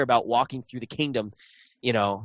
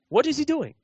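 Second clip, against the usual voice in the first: much higher, fussy onlooker voice; pitched-up imitation of a game extra; mock NPC bystander; 14 semitones higher than usual. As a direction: play a gawking townsperson. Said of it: "mix up the voice acting".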